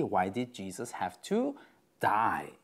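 "to" lifted in a rising tune before a pause, then "die"; stress on have to. Shown as a demonstration. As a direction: rise on "have to", hold, then drop "die". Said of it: "Where you put the emphasis".

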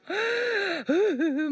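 a high, gulping gasp of a sob; sobbing gasp. Retold or imitated. Retelling crying before the pastor, sobbing gasp. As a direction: catch the breath as if crying. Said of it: "막 울면서".

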